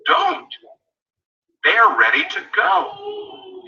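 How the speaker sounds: high emphatic shout. Real, not acted. Coach warning new reps, shouting. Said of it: "coach emphatic warning".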